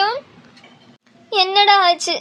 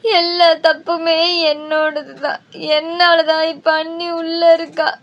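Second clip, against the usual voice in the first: tearful; slower than usual. Acted. Sister blames herself for accident.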